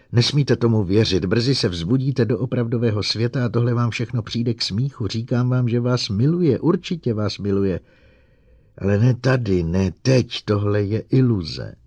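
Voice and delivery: excited, pleading. Acted. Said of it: "mluvil vzrušeným hlasem, téměř prosil".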